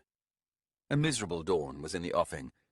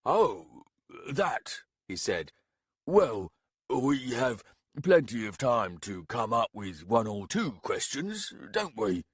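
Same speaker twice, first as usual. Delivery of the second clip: amused reply; 2 semitones higher, slower than usual. Acted. Baragast replies, voiced figure.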